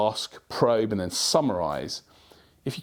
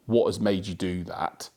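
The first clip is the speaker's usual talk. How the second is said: slow, accusing question; confrontational; 2 semitones lower, slower than usual. Shown as a demonstration. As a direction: ask it like a challenge, word by word. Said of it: "in that tone".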